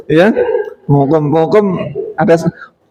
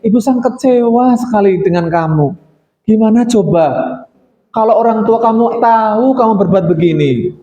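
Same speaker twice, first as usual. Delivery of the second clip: gentle guilt-trip. Shown as a demonstration. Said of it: "dengan lembut akan seperti ini".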